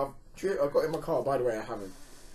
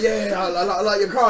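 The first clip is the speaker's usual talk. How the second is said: louder, pushy mock praise; aggressive compliment; 4 semitones higher, 6 dB louder than usual. Robber complimenting the driver's car, passive-aggressively. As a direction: imitate passive-aggressive admiration, pitch raised. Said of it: "but aggressively".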